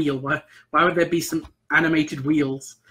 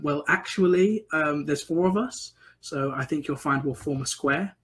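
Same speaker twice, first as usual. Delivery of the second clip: lightly voiced posh know-all, slow; a touch of posh correction, unhurried; posh character; 4 dB quieter than usual. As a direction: politely correct them in a mildly posh voice. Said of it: "this very posh character".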